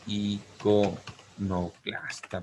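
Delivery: drawn-out word. Shown as a demonstration. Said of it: "Formo la palabra".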